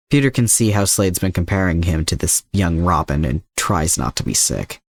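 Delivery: plain reading voice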